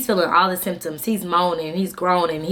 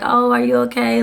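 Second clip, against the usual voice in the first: mock concern; 4 semitones higher, 4 dB louder than usual. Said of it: "I'm not gonna say I'm making fun".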